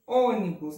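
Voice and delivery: Ônibus with a closed first ô. Shown as a demonstration. Teacher repeating the example, closed ô in Ônibus. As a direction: stress the closed ô opening Ônibus. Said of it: "é um som fechado".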